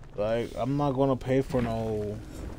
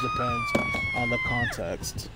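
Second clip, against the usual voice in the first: squeaky voice. Pretend. Mocking exaggerated explanation.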